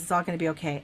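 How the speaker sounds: understated, even reassurance; very calm. Retold or imitated. Imitating John soothing her in the dream, very calm. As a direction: settle it without any fuss. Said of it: "he's very calm".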